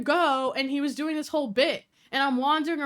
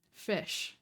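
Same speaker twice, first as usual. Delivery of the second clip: whispered word; 5 semitones lower, 9 dB quieter than usual. Real, not acted. Reads odd list item, whispered.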